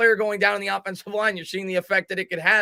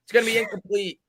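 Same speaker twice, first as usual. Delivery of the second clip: higher, louder excited play call; 6 semitones higher, 7 dB louder than usual. Acted. Calling the screen pass to Booker, live play-by-play.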